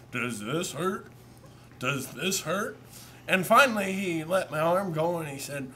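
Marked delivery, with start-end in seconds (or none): 0.1-2.8 a hint of the doctor's voice; lightly voiced doctor. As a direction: ask like a doctor prodding gently. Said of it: "He had a deep voice that I really can't".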